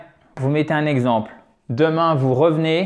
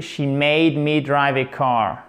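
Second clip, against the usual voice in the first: British English; slower than usual. Shown as a demonstration. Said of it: "c'est plus anglais généraliste, British English".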